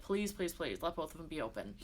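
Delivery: quiet, falling mock plea; retold desperate prayer. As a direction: retell a hushed prayer under your breath. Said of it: "literally started praying on that table".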